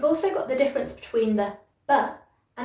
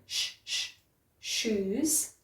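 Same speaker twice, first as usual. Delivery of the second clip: sh, sh, shoes almost whispered, much softer; whispery sh; 7 dB quieter, much slower than usual. Shown as a demonstration. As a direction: hush the sh like a whisper. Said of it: "It's almost like you're whispering".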